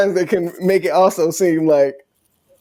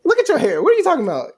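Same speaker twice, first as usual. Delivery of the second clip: tipsy disbelief; 12 semitones higher, much faster than usual. Retold or imitated. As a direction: brush off the compliment, tipsy. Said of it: "of course, I'm tipsy and drunk".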